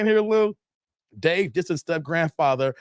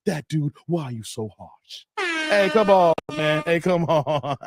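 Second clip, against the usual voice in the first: Doctor Umar impression. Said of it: "I gotta stop doing Doctor Dumar".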